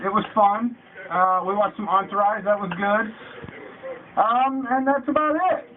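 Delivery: muffled inside a bucket; bucket on head. Real, not acted. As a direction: talk with a bucket over your head. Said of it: "my nose is so big that it's pushing against the bucket".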